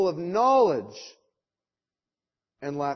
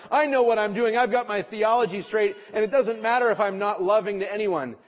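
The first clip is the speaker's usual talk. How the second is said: mock proud theologian. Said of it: "the kind of".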